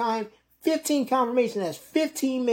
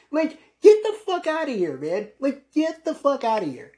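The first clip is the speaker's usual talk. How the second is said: scoffing dismissal; 5 semitones higher than usual. Real, not acted. Scoffing at eBay memory.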